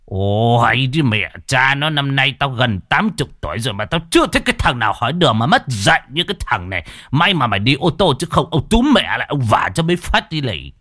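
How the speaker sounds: put-on a touch of indignant old-man grumbling; old man cursing a driver who left; grumbling curse. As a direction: mutter curses at the rude driver.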